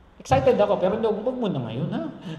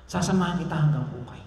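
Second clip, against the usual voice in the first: crying husband; 3 dB quieter than usual. Retold or imitated. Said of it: "Iyak siya".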